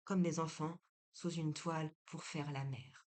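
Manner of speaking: measured, emphatic story narration; deliberate read-aloud delivery with firm phrase openings; literary reading. A narrator's reading. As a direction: read the novel aloud firmly, pausing between phrases. Reads a literary excerpt aloud.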